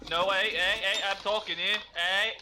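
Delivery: loud "hey" to cut in over the others; calling for attention. Real, not acted. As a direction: raise your voice to be heard. Interrupted, demands attention.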